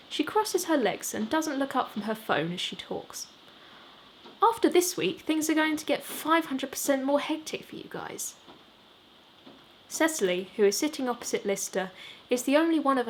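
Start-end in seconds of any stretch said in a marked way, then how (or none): 4.4-8.3 put-on a brisk woman talking down to the boys; manager's voice. Cecily to the band, breezy and much higher.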